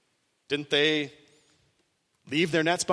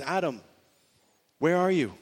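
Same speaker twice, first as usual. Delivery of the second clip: gentle call. Retold or imitated. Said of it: "the Lord goes into the garden and says".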